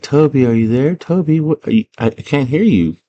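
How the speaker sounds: high, uneasy questioning call; kinda scared calling. Retold or imitated. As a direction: imitate a worried girl calling for a baby. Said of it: "So she's kinda scared".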